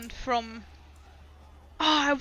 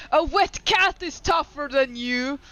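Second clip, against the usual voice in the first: mild in-character shout, a little louder; shouted taunt; 3 semitones higher, 5 dB louder than usual. Acted. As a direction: hurl a mock insult after a fleeing foe. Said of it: "shouting after him".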